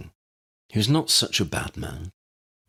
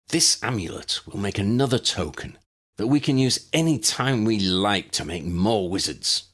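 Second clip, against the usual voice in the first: gathering his strength; 4 semitones higher than usual. Acted. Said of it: "gathering his strength".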